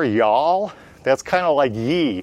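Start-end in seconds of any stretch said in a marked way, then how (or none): 0.0-0.7 "Y'all?" with a rising Southern twang; a folksy Southern "Y'all?" asked back. Shown as a demonstration. Teacher asking what Southerners say, Southern "Y'all?". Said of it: "what do they say down there?".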